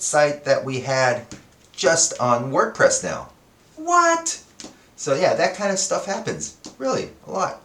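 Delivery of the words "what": high squeaky What; exaggerated shocked what; incredulous high yelp; mock disbelief.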